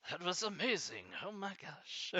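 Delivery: high voice between laughing fits; helpless laughter. Real, not acted. Streamer amused by own accent attempt, high laughing voice. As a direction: squeeze it out high while cracking up.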